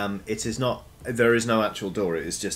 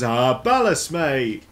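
another mushroom voice; 9 semitones higher, 9 dB louder than usual. Acted. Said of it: "someone else goes".

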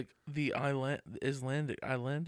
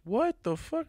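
mock outrage; much slower than usual. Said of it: "he goes".

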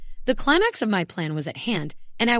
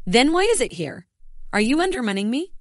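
voice rising; 6 semitones higher than usual. Acted. Mark confronting Samantha over the email, voice rising. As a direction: push the pitch up as suspicion boils over. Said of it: "Mark's voice rose".

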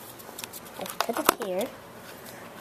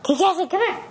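calling out; 4 semitones higher, 4 dB louder, much faster than usual. Real, not acted. Calling dog for round two.

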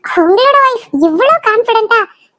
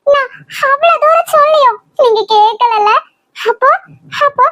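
tearful reproach; 5 semitones higher than usual. Acted. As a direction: voice cracking with tears as she accuses. Wife pleading against husband's decision. (கண்ணீருடன் குற்றம் சாட்டும் குரல்)

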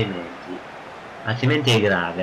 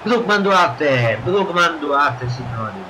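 breathless italian goal commentary; 7 semitones higher, slower than usual. Acted. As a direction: roar the scorer's name like a commentator. Player commentating his own goal. (telecronaca del gol senza fiato)

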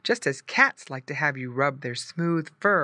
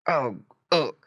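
pig grunts; 3 dB louder than usual. A narrator's reading. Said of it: "grunted Squinty".

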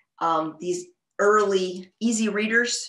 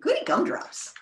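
high, gleeful squeal; 11 semitones higher than usual. A narrator's reading. Pig thrilled at flying lessons, squealing. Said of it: "squealed Pig".

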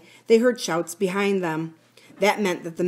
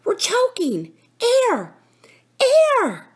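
very high, strained choking cries; desperate gasp; 5 dB louder, much slower than usual. A narrator's reading. Boy feigning suffocation in the tunnel, desperate gasping cries. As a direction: plead loudly for breath. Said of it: "gasped Philip".

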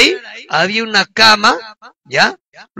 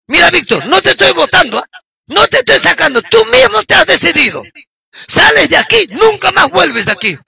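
higher-pitched, insistent scolding; retold stern dismissal; 5 semitones higher than usual. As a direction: act out ordering someone out for good. Retold quarrel, throwing Víctor out. (expulsión severa, recreada)

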